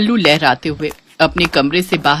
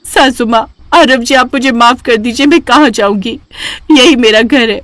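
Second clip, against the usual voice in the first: higher, lightly voiced young wife begging; pleading daughter-in-law; 4 semitones higher than usual. Daughter-in-law begging mother-in-law and husband, higher pleading voice. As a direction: beg them not to throw you out. Charu begs forgiveness.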